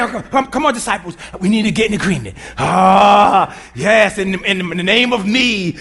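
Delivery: hammy pleading prayer-leader voice with a mock wail; mock church folk. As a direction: parody a showy preacher rallying the disciples. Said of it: "That's church junk".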